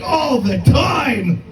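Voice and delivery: slow, drawn-out near shout; mock exasperated shout to girlfriend; exasperated answer.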